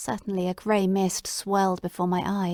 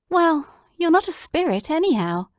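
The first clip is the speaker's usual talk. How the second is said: higher, excited half-laugh of relief; relieved wonder; 8 semitones higher, 4 dB louder than usual. Acted. Watson touching Holmes's sleeve, higher and excited. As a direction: feel his arm and rejoice.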